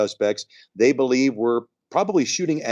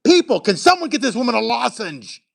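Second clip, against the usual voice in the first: calling out; 10 semitones higher than usual. Real, not acted. Calling out to the studio crew.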